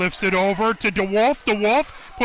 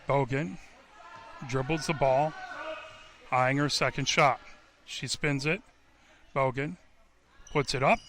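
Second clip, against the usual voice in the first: hushed call; 6 semitones lower, 8 dB quieter than usual. Real, not acted. Second free throw, hushed again.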